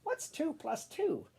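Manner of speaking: high, slow teacher question; teacher asking. Acted. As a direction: quiz them like a patient teacher. Teacher asks the class.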